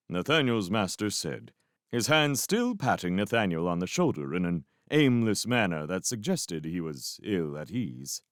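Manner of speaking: usual speaking voice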